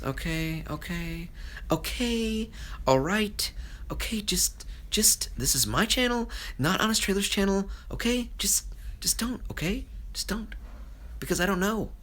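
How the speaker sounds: high, strained exasperated voice. Real, not acted. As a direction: plead with the chat to stop asking. Exasperated at Honest Trailers questions.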